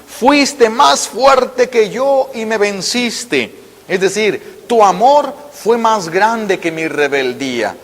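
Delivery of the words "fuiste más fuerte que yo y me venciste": very slow, stretched out; slow solemn quote. Acted. Preacher quoting Jeremiah to the faithful, very slow. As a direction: draw out every word with reverence. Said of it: "de una manera hermosísima".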